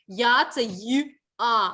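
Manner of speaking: Я broken into Й and А, each sounded apart; sounds separated. Shown as a demonstration. Teacher shows pupils which sounds Я is made of, sounding Й and А apart. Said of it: "вони складаються з тих звуків".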